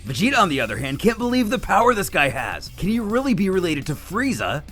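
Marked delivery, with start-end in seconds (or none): none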